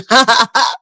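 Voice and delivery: short laugh of disbelief; amused laugh. Real, not acted. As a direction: laugh at the claim just made. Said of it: "I'm just laughing now".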